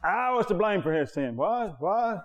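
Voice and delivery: a high, baffled protest, played up; mock bewildered reaction. Preacher replays how he heard the blame, mock bewildered. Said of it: "I heard it like that my whole life".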